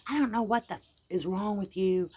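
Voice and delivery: high-pitched exasperated snap; imitated anger. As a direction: imitate a mother losing patience with her child. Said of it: "angry, and just threw him".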